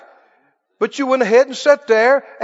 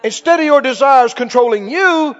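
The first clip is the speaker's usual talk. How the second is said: preaching at full force; 2 semitones higher, 3 dB louder than usual. Acted. Preacher rousing the congregation, louder and emphatic. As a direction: drive each line home to the church.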